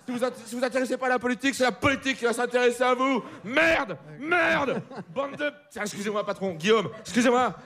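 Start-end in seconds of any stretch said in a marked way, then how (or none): 3.4-5.5 mock outburst. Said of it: "Putain, je m'emporte".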